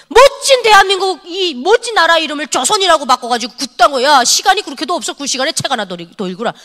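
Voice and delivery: retold scolding. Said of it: "엄청 혼내놨죠".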